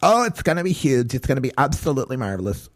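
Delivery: lightly voiced flamboyant Trump, fast with a laugh; a hint of a campy Trump, laughing through it; camp Trump. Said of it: "Now my Trump's turning gay".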